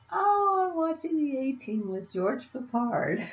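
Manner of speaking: high giggly delivery, pitch jumping up; laughing. Retold or imitated. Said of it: "That was so funny".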